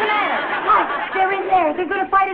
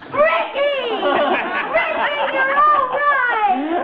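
overjoyed; 6 semitones higher, much slower than usual. Acted. Wife finds husband alive.

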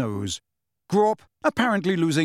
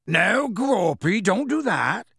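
slow, raised, higher call to the giant; Hagrid shouting; 6 semitones higher, slower than usual. A narrator's reading. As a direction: call it out slowly like scolding a big child. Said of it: "shouted Hagrid".

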